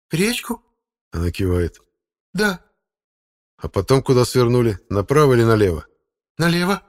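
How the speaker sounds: high, unsure woman's answers; lightly voiced confused woman. A narrator's reading. Muddled wife answering the narrator's questions, high woman's voice. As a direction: answer vaguely, a bit lost.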